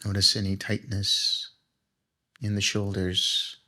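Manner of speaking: guided meditation. Acted. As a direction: lead them gently into relaxation, phrase by phrase.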